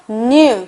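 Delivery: "new" starting with an N sounded in the nose; nasal N sound. Shown as a demonstration. Teacher demonstrating the N, "new" begun through the nose. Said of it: "코에서".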